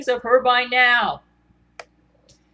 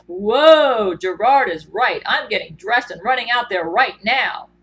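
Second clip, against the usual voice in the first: Hugh Jackman; 5 dB louder than usual. Acted. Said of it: "Here's Hugh Jackman".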